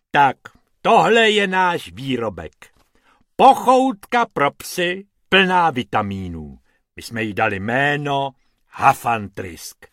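lightly voiced hippo, loud and pompous; a big animal introducing himself grandly.

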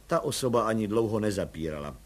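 usual speaking voice

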